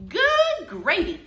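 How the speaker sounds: loud slow astonished mayor; sputtered. Acted. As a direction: sputter it shocked. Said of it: "he sputtered".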